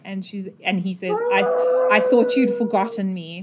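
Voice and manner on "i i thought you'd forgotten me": a touch of crying at the start; tearful. Acted. Creature speaking to her after she names him, tearful. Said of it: "he just starts crying".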